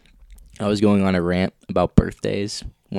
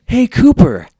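high, bright sing-song birthday wish; high cheery greeting; 12 dB louder, slower than usual. Retold or imitated. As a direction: chirp it up high and sweet. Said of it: "they're like".

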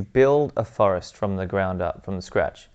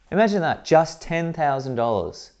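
amazed; 7 semitones higher than usual. Real, not acted. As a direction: stretch it out in awe. Price repeated in amazement.

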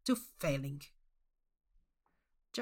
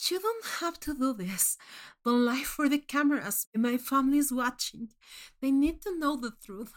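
shaky plea; 5 semitones higher than usual. Acted. Contestant pleads with Manx.

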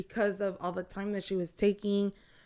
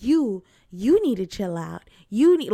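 crazed rant; 4 dB louder than usual. Retold or imitated. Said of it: "she's all like".

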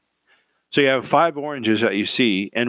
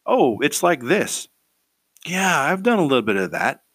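unhurried self-assured reply; calm measured answer; 4 semitones higher than usual. Shown as a demonstration. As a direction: answer calmly, taking your time. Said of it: "What would be better to say is".

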